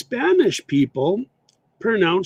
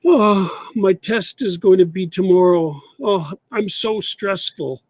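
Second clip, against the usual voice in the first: louder, mock-stressed student; a hint of a worried student; wrong example; 3 semitones higher, 3 dB louder than usual. Shown as a demonstration. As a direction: play a stressed student making the mistake. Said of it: "they say to their friend".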